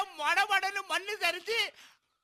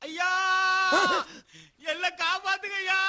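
calling for help. Acted. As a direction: call out for someone to save you. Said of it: "யாரா காப்பாத்துன்னு கத்துறது".

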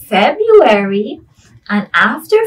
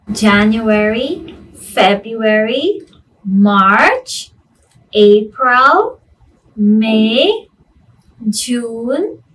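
sing song rote recitation. Shown as a demonstration. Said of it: "I want you to say it with me".

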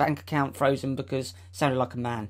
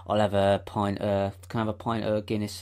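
mock deep voice; 4 semitones lower than usual. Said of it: "talk that deep".

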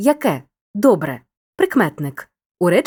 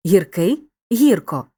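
"Гіркий" stressed on кий, then "гірко" on гір; stress moves to first syllable; slower than usual. Shown as a demonstration. Teacher showing adjective turned adverb, stress moving to first syllable. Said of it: "наголос переходить часто на перший склад".

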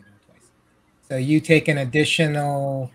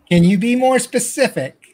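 bugbear voice; 8 semitones higher, 6 dB louder than usual. Acted. Bugbear answers the players.

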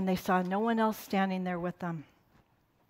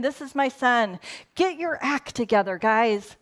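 hammed-up harsh scolding, a bit higher; harsh God; 3 semitones higher than usual. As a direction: play a mock stern father barking orders. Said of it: "he's not harsh like that".

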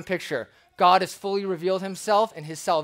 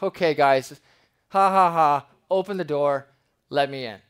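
laughing it off; 5 dB louder than usual. Retold or imitated. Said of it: "And you laugh it off".

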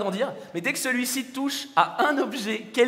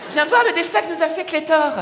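yelling across the room; 5 semitones higher, 5 dB louder than usual. Acted. Parent calling friend over.

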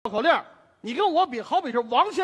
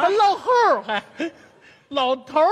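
raised, laughing objection; laughing protest; 3 semitones higher than usual. Real, not acted.

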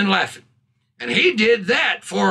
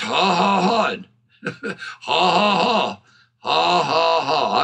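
spoken ha-has tipping into a chuckle; deliberate laugh; 4 semitones lower, slower than usual. Retold or imitated. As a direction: re-enact laughing as if taking medicine. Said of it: "I just started laughing".

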